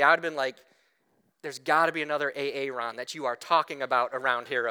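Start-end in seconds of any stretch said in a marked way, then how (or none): 1.4-4.7 low, quick dodge; half-joking protest in a lowered voice; mock reluctant Aaron. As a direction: play lightly at wriggling out of the job. Imagined Aaron balking at Moses.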